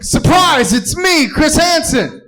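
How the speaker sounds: high, shouted surprise reveal; Chris Hansen. Acted. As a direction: jump out with a loud, gleeful ta-da. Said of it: "And then Chris Hansen's like".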